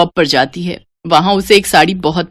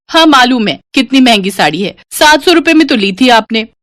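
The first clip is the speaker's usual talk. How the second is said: higher, teasing echo of mother's words; cheeky echo; 5 semitones higher than usual. Acted. Daughter mocking mother's warning, higher cheeky echo. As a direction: throw her words back at her, cheekily.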